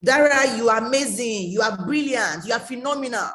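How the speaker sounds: hammed-up flattering gush; imitating a fan's praise; mock praise. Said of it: "praising you and saying".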